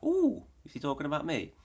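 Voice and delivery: high, loud "Ooh" in mock shock; mock surprise. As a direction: gasp it as if caught out, hammed up. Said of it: "And I was like".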